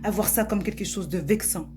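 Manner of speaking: mildly heated, accusing speech; indignant Alia. Acted. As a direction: confront the teacher with pointed emphasis. Plays Alia confronting the teacher. (indignée, sur un ton de reproche)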